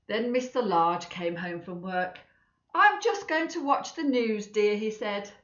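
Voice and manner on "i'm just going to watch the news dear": father's voice. Acted.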